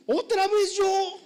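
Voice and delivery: slow high devil whine; exasperated devil. Pretend. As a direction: drag it out, tired of blame.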